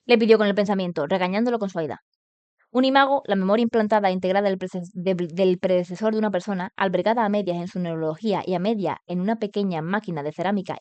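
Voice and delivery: even, continuous storytelling delivery; story narration. A narrator's reading. Streamer reads the novel to viewers, story narration. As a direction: read the novel aloud.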